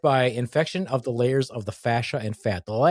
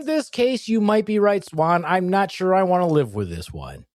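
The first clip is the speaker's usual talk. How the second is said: put-on British accent; 5 semitones higher than usual. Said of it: "keep talking in a British accent".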